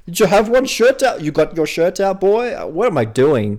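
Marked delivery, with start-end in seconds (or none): 0.0-2.5 high-pitched, unsteady stab at Scottish; all-over-the-place Scottish accent. Acted. Podcaster repeating the joke to his co-host, all-over-the-place Scottish accent. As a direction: have a bad go at a Scottish accent. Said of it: "My accent's all over the place".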